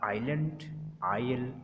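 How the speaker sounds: "आइलैंड, आयल" with no S before the L; silent S. Shown as a demonstration. Teacher giving examples of S before L, silent S. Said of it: "तो एस silent हो जाएगा".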